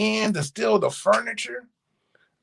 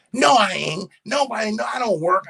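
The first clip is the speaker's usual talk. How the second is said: imitating a mother's higher-pitched protest; retold protest; 5 semitones higher than usual. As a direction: object quickly, as the doubting mother.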